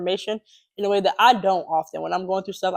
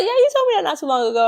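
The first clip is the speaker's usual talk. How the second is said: quoting friend; 10 semitones higher, 4 dB louder, faster than usual. Retold or imitated. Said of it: "And they were like".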